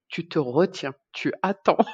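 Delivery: a hint of talking down to a child; lightly voiced nurse, as if to a small child. Nurse telling the mother to hold on, lightly childlike. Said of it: "comme si elle parlait à un enfant".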